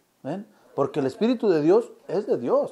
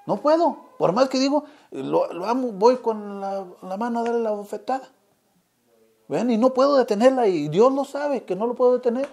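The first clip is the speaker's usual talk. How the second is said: higher and louder, pleading preacher's cry; impassioned preaching; 7 semitones higher, 5 dB louder than usual. Real, not acted. Preacher confesses to the congregation he cannot stop himself, impassioned and loud. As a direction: cry out the helplessness to the church.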